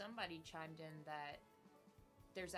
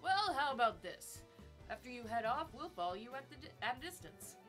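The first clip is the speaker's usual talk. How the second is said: party member voice; 6 semitones higher, 7 dB louder than usual. Acted.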